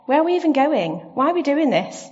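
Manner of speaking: put-on high, pleading child voice; mock child whining; whiny kids in a car. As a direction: whine like a bored kid in the back seat. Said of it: "the cry of children in a car".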